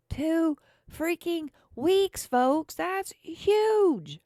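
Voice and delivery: high, loud disbelief; loud, high-pitched indignation at the news; incredulous outburst. Real, not acted. Outraged at the two-week rule.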